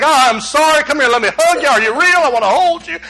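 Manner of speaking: eager acted apology; mildly dramatized, emotional apology; apologetic. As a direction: apologize in an affectionate rush. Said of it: "he's just apologetic".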